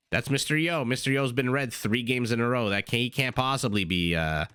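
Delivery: put-on a mild, playful New York accent on the brain's voice; New Yorker accent. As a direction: toss off a light New Yorker twang. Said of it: "I sounded like such a New Yorker there".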